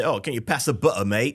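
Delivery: lightly imitated Cockney with dropped t's; a hint of Cockney glottal stops. Co-host showing how the English say it, mock Cockney. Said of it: "maybe it's like a Cockney thing".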